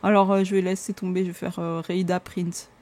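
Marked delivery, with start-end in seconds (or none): 1.8-2.7 "Rhaida Prince" in a plain French accent; French pronunciation. Shown as a demonstration. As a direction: give up and say the name the French way. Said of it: "en français".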